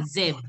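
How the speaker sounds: Zebra said "zebr", no final vowel; correct pronunciation. Shown as a demonstration. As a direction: drop low on Zebra, ending at the br. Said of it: "now it's okay".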